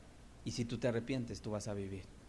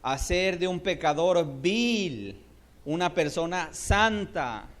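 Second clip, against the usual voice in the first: slow, raised, drawn-out; slow fervent proclaiming; 5 semitones higher, 6 dB louder, slower than usual. Real, not acted. Preacher proclaiming transformation slowly to the church. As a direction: lay each phrase down.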